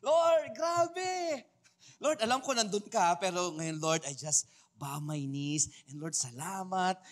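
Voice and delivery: put-on childlike, excited thanks; childlike excitement. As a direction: gush to God like a kid with good news. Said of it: "approach God na parang bata".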